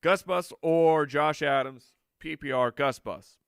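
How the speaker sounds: hyped nickname. Acted. Hyping a player nickname.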